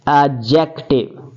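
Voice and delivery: एडजेक्टिव said as ajective, no d sound; silent d. Shown as a demonstration. Teacher showing students the silent d. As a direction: drop the d in एडजेक्टिव. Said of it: "D को pronounce नहीं किया जाता".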